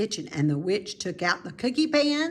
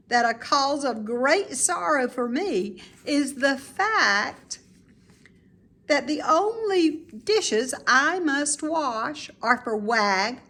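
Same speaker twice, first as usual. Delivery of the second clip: put-on cheerful old lady; 6 semitones higher than usual. Mrs Piggle Wiggle telling Mary Lou she loves dishes, delighted. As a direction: savour every word like a happy grandmother.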